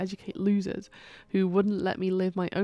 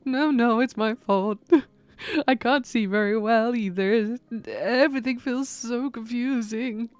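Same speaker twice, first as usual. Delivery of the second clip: confused gentle ghost; 2 semitones higher, 3 dB louder than usual. Acted.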